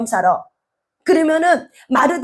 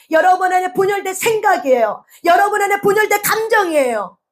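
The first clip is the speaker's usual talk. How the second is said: preaching shout; 7 semitones higher than usual. Real, not acted. Preacher to congregation about inner division, shouting. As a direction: hammer the point home to the congregation.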